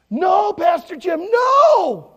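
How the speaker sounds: high, drawn-out shouted protest; screaming children. Retold or imitated. Children stopping the pastor eating banana, screaming. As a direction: yell it like a crowd of alarmed kids. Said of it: "they all started screaming".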